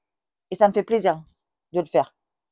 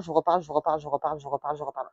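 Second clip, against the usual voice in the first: rabâchage qui s'éteint; 2 semitones lower, 6 dB quieter, much faster than usual. Shown as a demonstration. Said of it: "à chaque fois, je vous reparle".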